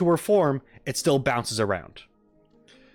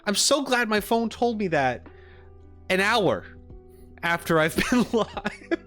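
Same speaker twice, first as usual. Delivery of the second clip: mock gratitude in a higher voice, giving way to laughter; sarcastic, breaking into laughter; 8 semitones higher than usual. Real, not acted. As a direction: end up laughing through the words. Mocks late notification, breaks into laughing.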